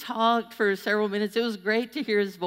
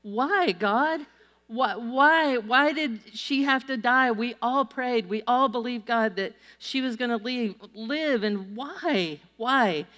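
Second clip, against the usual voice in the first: anguished prayer; 3 semitones higher than usual. Retold or imitated. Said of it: "we say".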